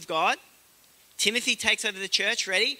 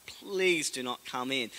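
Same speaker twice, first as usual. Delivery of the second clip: mock begging; 5 semitones lower, 7 dB quieter, slower than usual. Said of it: "the governor's begging him".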